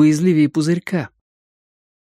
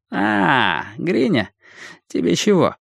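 higher, friendly greeting; switched-on friendliness; 5 semitones higher, slower than usual. A narrator's reading. Leader greets boy who barged in, switching to friendly. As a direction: greet him amiably, pitched up. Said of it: "переключил гнев на дружелюбие".

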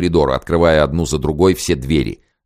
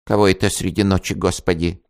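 put-on frightened old woman; 3 semitones higher than usual. A narrator's reading. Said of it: "испуганный старушечий глаз".

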